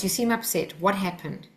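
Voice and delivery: calm, understated observation; gently name what you see, without pressure. Shown as a demonstration. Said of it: "with a calm voice".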